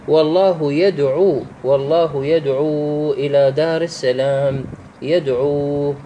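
measured recitation, final "uu" of يدعو drawn out; elongated vowel. Shown as a demonstration. Teacher reciting a verse as example, final vowel of يدعو lengthened. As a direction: hold the end of يدعو for two beats. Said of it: "المد ما عليكم بمقدار حركتين".

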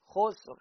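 خسر with a silent sin, as xusr; correct word. Shown as a demonstration. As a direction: repeat خسر with no vowel on the sin. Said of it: "هكذا". (خسر بسكون السين)

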